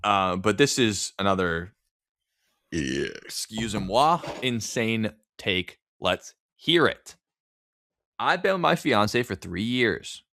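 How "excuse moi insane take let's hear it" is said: slow, drawn-out theatrical aside; mock-French aside. Host teasing the next story, slow theatrical drawl. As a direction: savor "excuse-moi" slowly.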